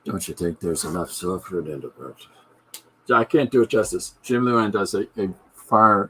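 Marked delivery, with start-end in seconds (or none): 0.1-2.3 mock Irish impression of a singer. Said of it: "stereotypical Irish things".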